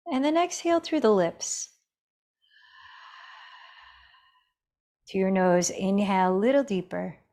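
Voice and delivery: calm, measured meditation guide with long pauses; guided meditation. Real, not acted. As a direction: gently guide them into the breath, leaving space between phrases. Leads breathing meditation.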